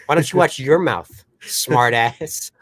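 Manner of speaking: hammed-up bratty retort; snapping back. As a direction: throw it back at her, rude. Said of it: "He's like".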